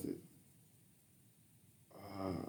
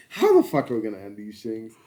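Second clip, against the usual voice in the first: slipped into a Jamaican accent; accidental Jamaican accent; 2 semitones lower than usual. Real, not acted. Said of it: "Are you trying to do a Jamaican accent?".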